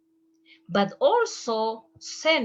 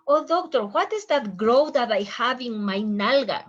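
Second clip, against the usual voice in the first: mock-worried patient, louder and higher at the start; 3 semitones higher, 5 dB louder than usual. Patient asks the doctor in mock worry. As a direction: plead like a patient with a lump.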